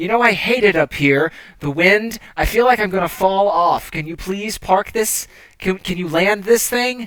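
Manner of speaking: high-pitched, loud shouting yell. Voicing a knight in training yelling over the wind: yelling over the wind. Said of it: "sort of has to yell into your ear".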